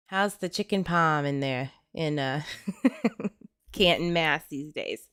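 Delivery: badly faked Boston accent, breaking into a laugh; country speaker's clumsy go at a Boston accent. Host asking a Massachusetts viewer about local food in a butchered Boston accent. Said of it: "a Boston accent to save my life".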